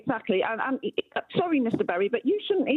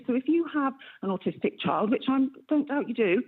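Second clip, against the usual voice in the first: caller heard down a phone line; radio show caller. Real, not acted. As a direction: narrow telephone sound, live on air. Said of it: "thank you very much for calling into the show".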